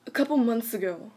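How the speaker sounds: measured story narrator. Shown as a demonstration. Reading a scary story to friends, narrator voice. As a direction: read it out as a storyteller. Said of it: "I'm gonna use my narrator voice".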